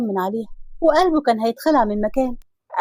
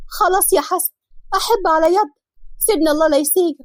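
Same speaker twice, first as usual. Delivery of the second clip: high, desperate pleading; frightened begging; 5 semitones higher than usual. Acted. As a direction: beg him to let go of her hair. Girl begging while dragged by hair.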